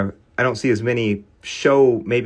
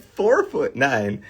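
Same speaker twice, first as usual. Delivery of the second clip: laughing; 3 semitones higher, much slower than usual. Real, not acted. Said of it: "I can't even say it without laughing".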